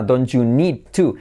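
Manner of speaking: "Don't you" slowly joined as don-chu. Shown as a demonstration. Teacher explains T plus Y, slow and joined. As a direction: draw out DON'T YOU NEED TO, joining T and Y. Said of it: "la T con la Y se convierte".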